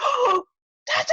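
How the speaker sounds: high, thrilled gasp of recognition; seeing him walk into the room, a high excited gasp. Retold or imitated. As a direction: gasp then cry out his name in delight. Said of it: "I was like".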